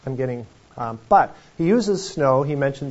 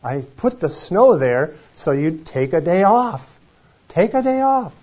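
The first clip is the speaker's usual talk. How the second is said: voicing God; 3 semitones higher, 5 dB louder than usual. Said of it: "And God's like".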